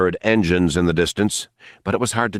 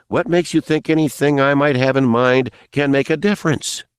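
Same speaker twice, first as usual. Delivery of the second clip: higher-pitched, bitter retort; angrily bitter; 7 semitones higher than usual. A narrator's reading. Nick challenging Mace on what difference his plans could make, angrily bitter. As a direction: throw it back with understated anger. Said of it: "His voice was angrily bitter".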